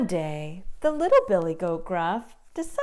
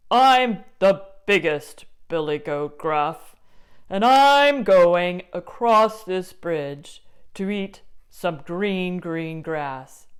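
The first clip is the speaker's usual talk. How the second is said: bold big goat; 7 dB louder than usual. Acted. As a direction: stand your ground.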